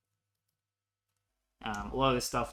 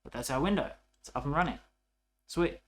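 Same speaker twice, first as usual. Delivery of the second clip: satisfied; 5 semitones higher, 6 dB louder than usual. Real, not acted. Tutor showing viewers the running window, satisfied. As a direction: show off the working window.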